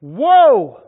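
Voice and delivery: sudden high loud wail; woe cry. Acted. Preacher voicing Isaiah's reaction, loud high wail. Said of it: "that was Isaiah's reaction".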